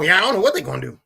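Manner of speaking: acting out a loud, high protest; retold loud refusal. Dad's refusal acted out.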